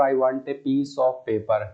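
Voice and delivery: corrected sentence read slowly; slow dictation of the corrected version. Shown as a demonstration. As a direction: dictate the right sentence deliberately. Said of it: "हम बोलेंगे यहाँ पर".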